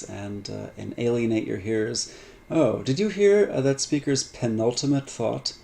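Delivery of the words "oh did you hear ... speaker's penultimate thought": higher, louder start easing down; playfully put-on impressed question; mock showing off. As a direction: play at dropping a fancy word. Showing off a fancy word.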